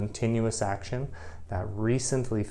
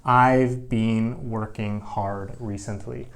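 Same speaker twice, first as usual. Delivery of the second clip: slow acted reply; slower than usual. Shown as a demonstration. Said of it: "And I say".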